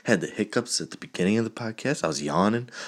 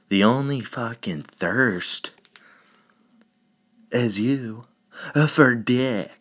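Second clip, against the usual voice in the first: mocking retort; 4 semitones higher, slower than usual.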